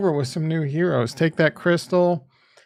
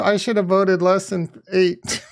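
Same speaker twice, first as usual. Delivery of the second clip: mock crying. Mock crying over bad stats.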